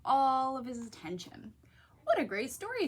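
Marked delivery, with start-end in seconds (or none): 2.1-2.9 higher delighted thought; amazed by the book. A narrator's reading. Froggy hooked by the story, higher delighted voice. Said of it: "thought Froggy".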